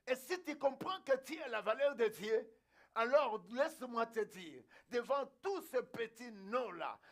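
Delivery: driving, rhythmic preacher's build; forceful preaching. Real, not acted. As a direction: hammer each repeated phrase at the congregation. (prédication enflammée et martelée)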